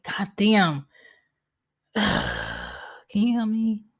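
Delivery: exasperated plea. Retold or imitated. Acting out asking for help.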